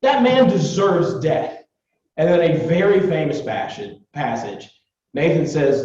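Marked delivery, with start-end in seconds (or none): 0.0-1.6 imitating a furious king, raised pitch; hammed-up angry verdict; mock fury. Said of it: "He's furious".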